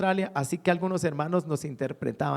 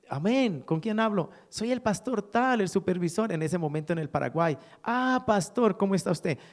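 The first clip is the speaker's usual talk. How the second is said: higher-pitched, lively exchange of hellos; acted phone greeting; 3 semitones higher than usual. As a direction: greet a caller with pleased recognition. (saludo telefónico animado, en tono más agudo)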